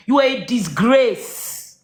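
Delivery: slow, deliberate, cold condemnation; slow contempt. Real, not acted. Telling Mama she is a disgrace, slow and cold. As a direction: spell out each word like a verdict. Repeated insult, second take harder.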